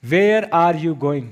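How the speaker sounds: very slow, word by word; teacher's drawn-out example; slow demo. Shown as a demonstration. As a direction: spell it out slowly for the class. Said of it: "कैसे?".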